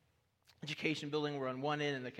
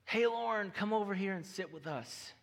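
a light Texas twang, called out; 4 semitones higher than usual. Retold or imitated. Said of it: "in a classic Texas twang".

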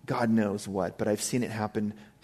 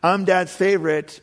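put-on kid's voice; 5 semitones higher, 4 dB louder than usual. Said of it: "all my kids ask me that question".

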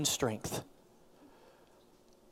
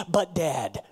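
laughing mock child; 4 semitones lower than usual. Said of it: "You can never use them together".

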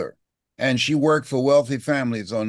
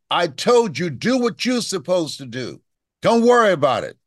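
mild irritated snap, higher; imitating an annoyed mother, louder at the end; aggravated mother; 5 semitones higher, 3 dB louder than usual. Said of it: "now she's aggravated".

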